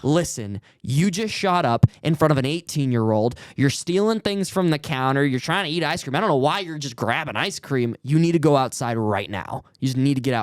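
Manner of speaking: firm, mildly heated telling-off; retold outburst. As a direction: lay down the law, retelling a lost temper. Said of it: "my lid just flew right off".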